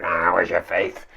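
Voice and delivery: slow, mildly irritated; a touch of exasperation on Ah; annoyed. Retold or imitated. Jesus mildly annoyed at his disciples' lack of faith. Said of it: "Or maybe he was annoyed".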